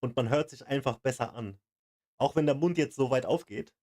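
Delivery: "man hört sich einfach besser an" with wide mouth movements; over-articulated. Shown as a demonstration. Viewer trying again in German, "besser an" over-articulated. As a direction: open wide on "der Mund jetzt so weit aufgeht". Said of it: "ich versuch's jetzt wieder".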